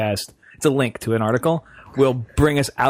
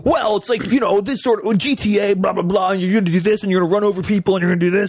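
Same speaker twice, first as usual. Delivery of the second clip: mocking game hype; 6 semitones higher, faster than usual. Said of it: "What comes out is like".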